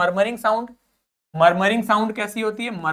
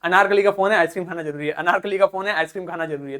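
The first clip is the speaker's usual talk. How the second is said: garbled message; 3 semitones lower, 4 dB quieter, much faster than usual. Retold or imitated. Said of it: "कोई भिड़ता है और वो बोलता है".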